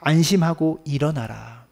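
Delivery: slow, tender call to rise; gentle command. Acted. Jesus telling Bartimaeus to rise, gentle and slow. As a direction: lift him up kindly. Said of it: "또 말씀하십니다".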